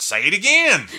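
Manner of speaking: imitating him, high loud command; retold shouted order. Musician imitating his bandleader ordering him to repeat it, loud shout.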